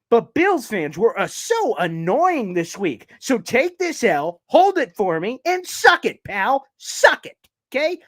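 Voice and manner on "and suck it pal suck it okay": taunting. Real, not acted. Taunting Bills fans.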